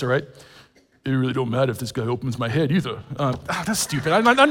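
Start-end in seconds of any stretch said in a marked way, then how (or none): 1.0-3.0 lightly done South Philly Rocky voice, quick; a hint of Stallone's mumble, brisk. Shown as a demonstration. To the congregation, a half-hearted Rocky South Philly voice. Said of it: "I'll give you one sentence of the voice".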